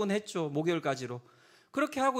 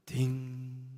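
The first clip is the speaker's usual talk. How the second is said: imitated bell toll; 5 semitones lower, much slower than usual. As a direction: mimic a bell stroke left to resonate. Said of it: "제아의 종소리 있잖아요".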